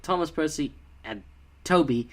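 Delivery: mock narrator pausing before TOBY; oddly placed breaths. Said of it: "it kinda came at weird times".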